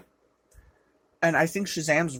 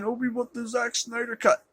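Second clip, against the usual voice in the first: mocking fans; 5 semitones higher, 4 dB quieter than usual. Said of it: "all the people saying".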